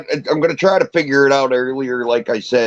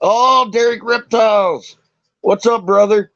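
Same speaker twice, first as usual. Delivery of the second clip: high, drawn-out happy welcome; excited greeting; 8 semitones higher than usual. Real, not acted. Welcoming a friend to stream.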